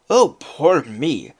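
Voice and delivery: slow, loud self-pitying Irish wail. Acted. Lazy Jamie wailing over his fate in an Irish accent. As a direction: wail it slowly in an Irish brogue. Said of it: "wailed Jamie".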